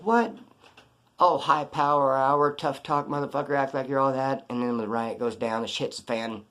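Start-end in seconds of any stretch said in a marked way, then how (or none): 0.0-0.4 sharp high disbelieving "What?"; a quick mock double take at the hat; incredulous what. Seeing Trigger's hat still on. 1.2-4.5 slow, drawn-out sarcastic jeer at a fake tough guy; taunting the inmate who kept his hat on during the riot; mocking taunt. Mocking Trigger's tough-guy act.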